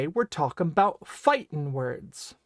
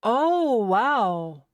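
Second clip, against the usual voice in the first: surprised; 5 semitones higher, 5 dB louder than usual. Acted. Reacts in surprise to announcer.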